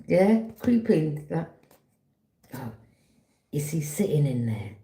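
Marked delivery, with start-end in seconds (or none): 2.5-4.7 sneaky whisper, like peeking in; hushed sneaky aside. Retold or imitated. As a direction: whisper it as a snooping creeper. Acting out a sneaky creeper.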